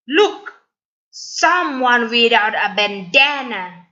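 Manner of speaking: mock Bolan like a playground bully; taunting bully.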